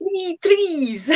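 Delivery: "three trees" with a clear th in "three" and a t-r in "trees"; careful th sounds. Shown as a demonstration. Tutor shows the th and tr contrast. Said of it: "to say three trees".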